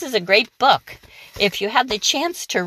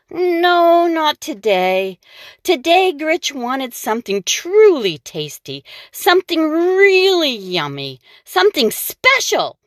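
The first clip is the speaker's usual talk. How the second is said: rising, higher excited reading; eager storytelling; 8 semitones higher than usual. A narrator's reading. Reading to children, building excitement about the craving.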